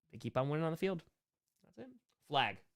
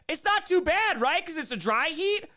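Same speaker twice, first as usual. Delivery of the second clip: mocking Arizona fans; 12 semitones higher, 4 dB louder than usual. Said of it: "people were like".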